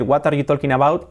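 Spanish-accented English, each word separate; "talking" as "TOL-kin", rising at the end; learner's Spanish accent. Shown as a demonstration. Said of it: "Cambia mucho decir".

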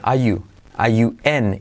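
"are you" as "a-yu", without the R; R dropped. Shown as a demonstration. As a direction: let the R of "are" fall away before "you". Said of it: "la R decae". ("are you" sin R, como "a yu")

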